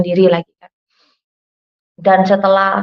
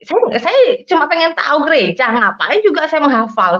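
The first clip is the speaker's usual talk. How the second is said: higher-pitched, put-upon protest; retold grumbling protest; 6 semitones higher than usual. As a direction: grumble as if it's all pointless. Grumbling over having to memorise.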